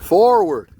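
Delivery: loud high shout; calling out. Real, not acted. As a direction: call it out across the yard. Calling out to driver.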